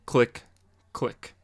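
normal talking voice

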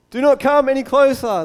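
loud, high commanding voice; stern warning. A narrator's reading. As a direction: warn them off as the voice of God. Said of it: "the Lord warned".

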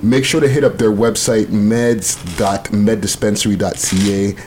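measured ad read, slowing on the handles; commercial voice. Acted. Host plugging a sponsor on request, commercial voice. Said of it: "get the commercial voice now".

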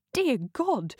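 scandalised outburst at the lovers; shocked exclamation. Acted. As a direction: react to the scandal aloud. Jess shocked at the couple.

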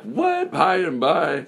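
high, squeaky parental disbelief; shocked parent. Retold or imitated. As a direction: play a baffled mom in disbelief. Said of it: "Mom and Dad are gonna be like".

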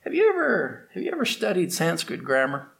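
a learned man showing off to a servant, condescending; condescending pundit. Acted. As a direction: talk down to a lowly boatman. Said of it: "He looked down his nose at the ferryman".

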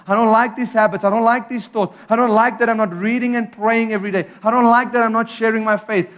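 rising, pressing plea that builds and speeds up; fervent repentant prayer. Pretend. Voicing a believer's prayer of repentance.

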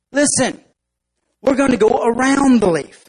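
a hint of a confident nerdy ant. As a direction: explain the plan patiently. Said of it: "the real nerdy looking ant".

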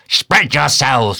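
high, drawn-out order; crying out. A narrator's reading. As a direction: call it slowly across the water. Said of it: "cried Ahab".

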